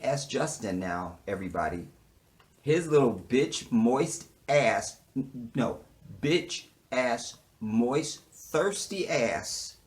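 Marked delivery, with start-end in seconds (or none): 2.6-9.8 contemptuous. Real, not acted. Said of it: "slow insult rant".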